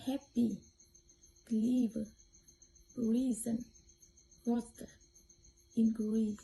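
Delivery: HAPPY, CLEVER, REASON, WATER, INCREASE, each stressed on its first syllable. Shown as a demonstration. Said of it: "stress fall on the first syllable".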